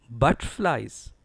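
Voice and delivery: slow butterflies with a strong BUT; deliberate BUT-tflies; stress on BUT. Shown as a demonstration. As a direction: punch BUT in butterflies, reduce "ter". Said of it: "Stress is on B U T".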